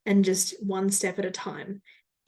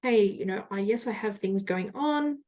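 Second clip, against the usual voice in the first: calm voice. Shown as a demonstration. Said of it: "talk in this kind of calm voice".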